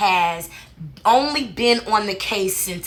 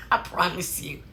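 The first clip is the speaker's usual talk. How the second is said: laughing; 4 semitones lower, 9 dB quieter than usual. Real, not acted. Laughing aside to viewers.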